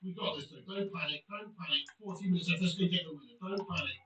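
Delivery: low, softened team talk; steady them, keep it low; calm reassurance. Real, not acted. Player settling team with fourteen minutes left, calm low voice.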